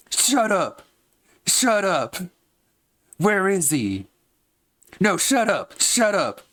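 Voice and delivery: high angry goblin outburst; mad goblin yelling. Acted. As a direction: shout it high like a furious goblin. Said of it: "Just a mad, angry goblin".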